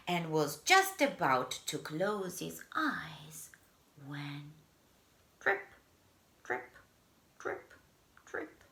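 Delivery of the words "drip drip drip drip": drips growing softer to a whisper; fading drips. Acted. Narrator voicing the leak, fading. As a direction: let the drips fade away.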